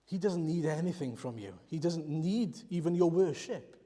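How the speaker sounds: ordinary delivery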